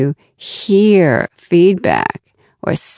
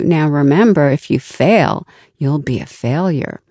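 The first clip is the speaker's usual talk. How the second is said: a touch of the cautioning inner critic; fixed mindset voice; 2 semitones lower than usual. Acted. Inner critic warning you about failure, mildly ominous. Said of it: "the fixed mindset voice might say to you".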